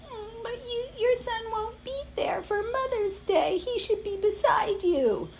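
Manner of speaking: high, hushed guilt-tripping whisper; nagging inner voice. Retold or imitated. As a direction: whisper doubt into her ear like a sly inner critic. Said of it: "there's a little voice in my head that's like".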